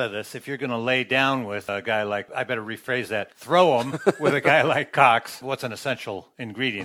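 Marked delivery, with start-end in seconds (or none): 3.3-5.4 laughing. Real, not acted. Joking correction mid-question.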